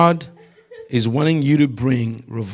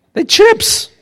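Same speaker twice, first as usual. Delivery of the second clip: indignant high yell; 4 dB louder than usual. Retold or imitated. Shouting correction, very high.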